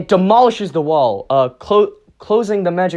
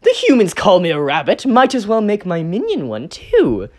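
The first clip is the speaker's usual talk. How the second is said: excited realization; 2 semitones higher than usual. Acted. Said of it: "Noir Rabbit's thinking".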